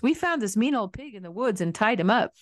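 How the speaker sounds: put-on proud kids blurting their news; boys shouting. A narrator's reading. Boys telling pa about the pig, eager shout. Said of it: "the boys shouted".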